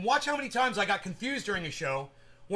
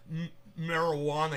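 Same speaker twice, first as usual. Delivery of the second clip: said it slow; 3 semitones lower than usual. Retold or imitated. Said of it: "He, like, said it slow".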